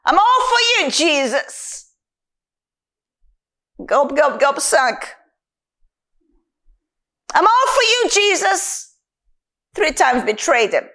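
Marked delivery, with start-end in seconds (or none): 0.0-1.8 high, eager declaration; eager pledge falling away on the name; Peter. Acted. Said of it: "Just like Peter". 7.3-8.9 high-pitched, eager pledge; keen vow in a raised voice; Peter. Acted. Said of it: "Just like Peter".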